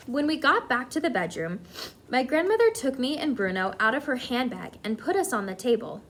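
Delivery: animated read-aloud storytelling; story narration. A narrator's reading. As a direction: tell the story to listening children.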